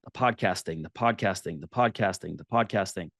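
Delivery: a voice in his head repeating, low; inner voice. Retold or imitated. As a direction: echo it low like a thought that won't leave. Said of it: "this voice just came in my head".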